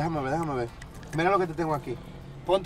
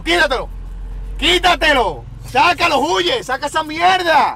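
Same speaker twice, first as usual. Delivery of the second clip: frantic yelling; 4 semitones higher, 4 dB louder than usual. Acted. Frantic exorcism-style demand.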